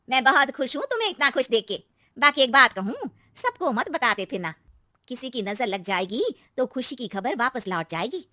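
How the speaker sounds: lightly voiced knowing aunty; congratulate, then warn in confidence; cautioning neighbour aunty. Aunty warning young neighbour about the evil eye, cautionary.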